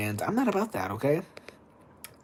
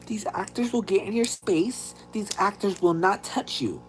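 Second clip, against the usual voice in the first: hayride announcer lady; 7 semitones higher than usual. Retold or imitated. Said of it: "She's like".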